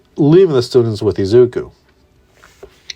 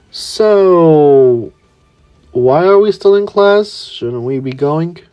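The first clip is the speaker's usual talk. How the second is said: put-on high, bright-eyed boy voice, much higher; a higher boyish character voice, trailing off; Kirishima's voice; 5 semitones higher, slower than usual. Kirishima nudging daydreaming Izuku, in his higher boy voice.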